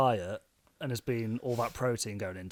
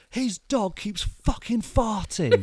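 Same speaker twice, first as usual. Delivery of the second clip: put-on higher, slow old bloke voice, laughing through it; imitating old bloke; 8 semitones higher, 4 dB louder, slower than usual. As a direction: drag it out like a fed-up old man, giggling. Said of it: "this old bloke goes".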